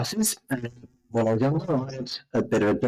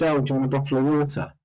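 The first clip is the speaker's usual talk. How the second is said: put-on southern accent; 3 semitones higher, faster than usual. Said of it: "I said".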